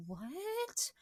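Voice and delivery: high, baffled squeak of a question; confused what. Retold or imitated. Mimicking the confused girls, a high puzzled what. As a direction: play the girls' total confusion.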